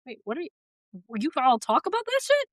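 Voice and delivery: mock disbelief, pitch climbing as it goes; incredulous. Baffled by in-laws' open talk.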